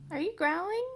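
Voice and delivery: high, loud startled pet talk; suddenly alarmed at the dog; surprised question. Real, not acted. Owner startled by growling dog, surprised high voice.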